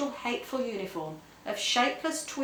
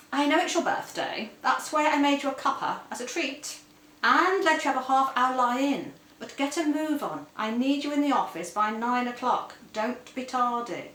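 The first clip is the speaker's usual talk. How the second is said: higher-voiced, brisk bossy husband; a hint of a pompous husband; 4 semitones higher, 3 dB louder than usual. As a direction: play the staid husband giving orders. Pompous husband ordering wife about.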